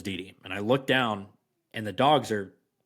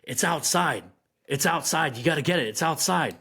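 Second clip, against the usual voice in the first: frantic; 4 semitones higher than usual. Retold or imitated. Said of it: "she's frantically jumping up and down".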